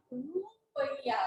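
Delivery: रुपया drawn out very slowly, each sound of रु-प-या separate; रुपया said very slowly, syllable by syllable; slow spelled-out pronunciation. Shown as a demonstration. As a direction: stretch रुपया out to show its sounds. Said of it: "इसका उच्चारण क्या हो गया".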